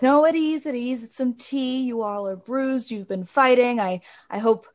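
gentle commander voice. Acted. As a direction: settle the troops kindly. Magister soothing rowdy soldiers.

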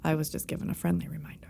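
hushed, fast whisper. Real, not acted. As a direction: whisper it as a secret. Joking about work rules.

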